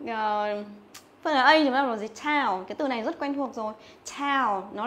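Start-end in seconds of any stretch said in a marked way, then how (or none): 2.2-2.6 "Tao" with a full gliding ao; ao diphthong. Shown as a demonstration. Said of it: "đây là âm ao". 4.2-4.7 "Tao" with a full gliding ao; ao diphthong. Shown as a demonstration. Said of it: "đây là âm ao".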